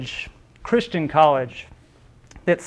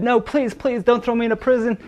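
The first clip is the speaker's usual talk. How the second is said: higher, begging plea; a poor slave begging a fellow slave for mercy, higher and pleading; 5 semitones higher than usual. Acted. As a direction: plead with your creditor, voice lifted. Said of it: "that slave said".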